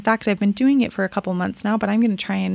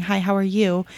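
rushed greeting. Shown as a demonstration. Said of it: "not just be rushing by saying".

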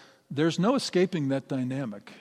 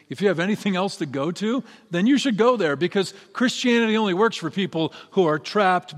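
faster, louder, building sermon push; fervent preaching; 3 dB louder than usual. Real, not acted. Pastor urges the congregation, faster and louder, building. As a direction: drive the point home to the congregation.

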